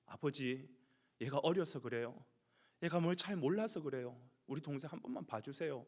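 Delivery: calm an angry father for your sibling; placating older brother. Acted. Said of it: "아버지의 마음을 달래는 것이지요". (동생을 감싸며 달래듯 부드럽게)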